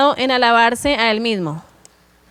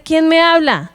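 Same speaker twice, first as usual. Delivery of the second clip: startled woman; 4 semitones higher, 3 dB louder than usual. Retold or imitated. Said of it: "Y ella se asusta y dice".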